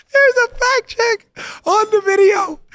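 very high, slow, helpless disbelief; incredulous squeal. Real, not acted. Host reveals the fact check to listeners, squealing in disbelief. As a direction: squeak it out in amused astonishment.

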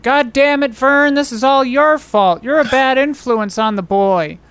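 mild, drawn-out scolding as Mom; slow, understated mock rant; mock yelling mother. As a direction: imitate an angry mother, without full volume. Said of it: "yell at Dad".

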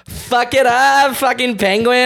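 high, loud, slow laughing squeal; camp cheer. Pretend. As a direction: squeal it like a hype queen.

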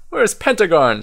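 high, light chirp of a question; chirping Owl. A narrator's reading. Owl asking after the missing wizard, chirping. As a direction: pipe it up like a little owl. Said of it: "chirps Owl".

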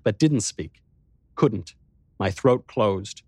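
plain reading voice

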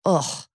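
short, disgusted "ugh"; disgusted groan. Real, not acted. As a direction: groan in disgust at what you just told. Disgusted reaction to the retold abuse.

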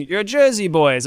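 slow, drawn-out Jersey line; Jersey accent. Retold or imitated. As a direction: lightly quote the pitch in Jersey. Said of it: "instead of saying".

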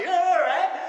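mock ugly cry. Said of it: "She does the ugly cry".

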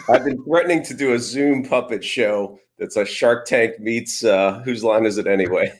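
usual speaking voice

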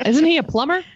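high laughing question. Real, not acted. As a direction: laugh through it.

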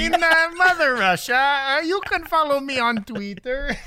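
a hammed-up Russian accent, a little Southern; a lightly put-on Russian accent through giggles; spicy Russian accent. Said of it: "That's a spicy Russian".

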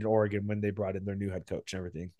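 hoarse, failing voice; losing voice. Real, not acted. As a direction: talk through a voice that's going. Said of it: "ah, sorry, I'm losing my voice".

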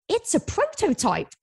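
high, slow, playful hype; mock sales pitch. Founder pitching the mistake to the team, high and slow. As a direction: sell the blunder as a shiny prototype.

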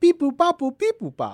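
high beeping robot noises; toy robot voice. Acted. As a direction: beep like a little droid. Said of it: "fight a robot".

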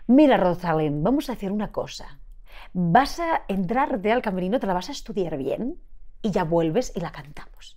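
put-on light Catalan accent, a firm older singer telling her off; the older singer's Catalan accent. The older singer sends a nervous singer off to study, Catalan accent. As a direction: imitate a Catalan accent, stern but half-joking. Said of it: "haces el acento catalán".

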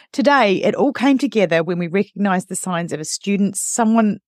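real tears catching in the reading voice; choked up. Real, not acted. Reading a listener's message to her co-host, getting teary. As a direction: read on while fighting back real tears. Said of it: "honestly, I'm a bit teary".

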